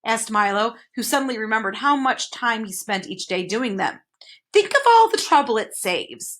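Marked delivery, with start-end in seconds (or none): 4.5-6.4 explaining. A narrator's reading. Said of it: "the man explained".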